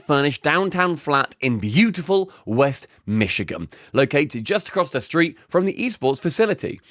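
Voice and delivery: lightly performed commercial read. Acted. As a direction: deliver it as a sponsor pitch. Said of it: "do it in an ad read".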